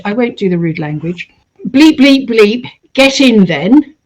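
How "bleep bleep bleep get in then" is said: rough Rosemary West voice. Retold or imitated. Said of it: "this rough voice of Rosemary West says".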